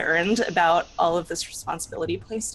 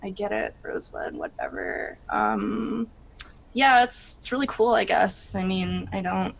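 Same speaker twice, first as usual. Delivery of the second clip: grudging, half-hearted agreement; mildly sulky teenager; reluctant teen; 3 dB quieter than usual. Acted. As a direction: shrug it off like a bored teen. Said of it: "She's like".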